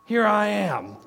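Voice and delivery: joyful testimony, climbing in pitch; rising testimony. Retold or imitated. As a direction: proclaim it like living proof. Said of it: "stand up and say".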